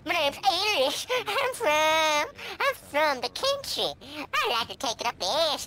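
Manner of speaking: slow, whiny mock hillbilly; lightly voiced mock hillbilly with a fake sob; mock hillbilly intro. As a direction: play a dumb country boy, drawn out. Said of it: "mock introduces game characters".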